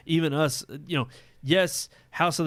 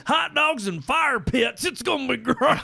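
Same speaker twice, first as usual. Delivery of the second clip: excited; 10 semitones higher than usual. Real, not acted. Excited about fall season.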